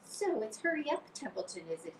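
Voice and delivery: mock the pig's urgency lightly; imitating Wilbur. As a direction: Templeton mimics Wilbur mockingly. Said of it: "He began imitating Wilbur's voice".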